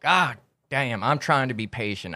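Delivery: a hint of a gruff cowboy losing patience. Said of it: "Love the cowboy voice".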